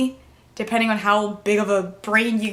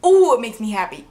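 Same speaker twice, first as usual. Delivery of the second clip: teary; 5 dB louder, faster than usual. Real, not acted. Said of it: "I'm sorry, I'm getting emotional".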